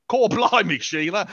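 broad mock Aussie accent; Australian accent. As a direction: ham up a thick Australian accent. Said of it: "everyone else is like".

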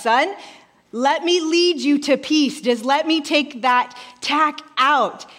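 slow, soothing mom voice; slow down and soothe a panicking child; gentle, unhurried reassurance; calm and peaceful. Retold or imitated. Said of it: "Completely calm, completely peaceful".

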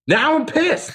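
high-pitched hammed-up indignation; mock outrage. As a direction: play up the fake anger. Mock outrage over the movie.

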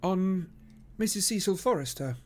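high, teasing repeat of the name; amused echo. Acted. Detective teases friend about his visit, amused. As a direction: echo it with a twinkle of a smile. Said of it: "with a twinkle of a smile".

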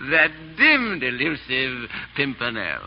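slow, drawn-out punchline of a verse; verse recital. Acted. Fop finishing his verse after laughing, reciting. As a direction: deliver the closing line with measured relish. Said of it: "I want you to hear my verse".

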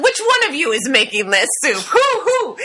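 fishmonger demanding. Retold or imitated. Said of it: "he looks at them and he goes".

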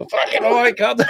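high, exasperated Boston exclamation; mock Boston accent. Host mimics riled Bostonian, high Boston accent. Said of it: "I love the Boston accent".

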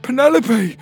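very high, loud cry of recognition; joyful cry. Acted. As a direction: shout the name in overwhelmed relief. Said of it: "Petey cried".

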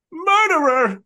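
mock shouted accusation; accusing shout. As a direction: shout it at the killer.

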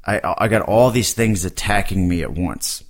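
barely holding it together, sick and tired; hungover. Real, not acted. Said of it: "it's making me feel like death".

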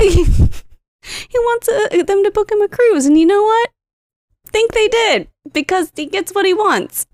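real laughter breaking into the story; laughing. Real, not acted. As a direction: laugh through the words. Laughing while telling the story.

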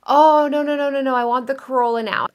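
high, whiny no no no; petulant refusal. Pretend. Woman refusing the universe's Lamborghini, petulant whine. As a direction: refuse it like a spoiled kid.

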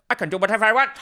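high, loud, laughing bad Bette Davis; terrible Bette Davis impression. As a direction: ham up a grand diva, laughing. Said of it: "That was terrible".

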